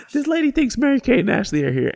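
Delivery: high-pitched incredulous jeer; mocking announcement. Worker ridicules the customer to the whole group, jeering. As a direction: broadcast it to the whole line.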